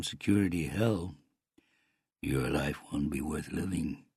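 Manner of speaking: lightly voiced uncle with controlled menace; threatening Canadian uncle. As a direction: deliver a measured warning.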